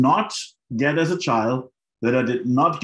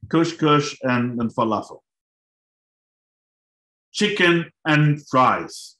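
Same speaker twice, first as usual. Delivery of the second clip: slow reveal; slower than usual. Retold or imitated. Dramatic reveal of the dinner.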